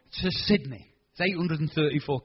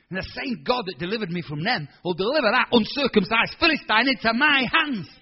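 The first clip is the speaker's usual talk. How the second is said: defiant declaration; 4 semitones higher, 5 dB louder than usual. Retold or imitated. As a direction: proclaim it boldly. David defiant before Goliath.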